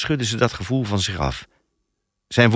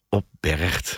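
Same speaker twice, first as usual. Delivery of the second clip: chuckling; 3 semitones lower, 3 dB quieter than usual. A narrator's reading. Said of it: "grinnikte Tycho".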